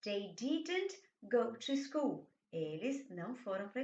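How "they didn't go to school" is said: didn't stressed, slow; slow negative, leaning on didn't. Shown as a demonstration. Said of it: "Já na forma negativa". (ênfase em didn't, devagar)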